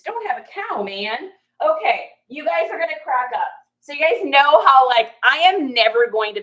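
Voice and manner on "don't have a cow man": Bart quote. Retold or imitated.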